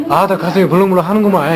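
put-on a light Jeolla accent, fast; Jeolla dialect. Host shows a Jeolla way to say it, lightly done. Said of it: "전라도".

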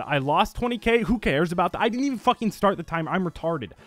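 venting real frustration; annoyed at himself, loud; frustrated rant. Real, not acted. Frustrated rant after loss.

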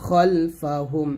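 "খলফাহুম" slow, with heavy rounded kh; Arabic pronunciation. Shown as a demonstration. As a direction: stretch "খলফাহুম" syllable by syllable, vowel like "aw" after kh. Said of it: "এটাই আরবি।".

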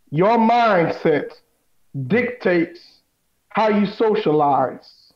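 slow it down for emphasis; slow and deliberate. Shown as a demonstration. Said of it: "I'll say it again".

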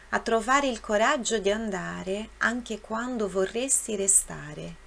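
slow, measured Italian verse reading; reading verse aloud. Shown as a demonstration. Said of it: "na segunda estrofe aqui diz o seguinte".

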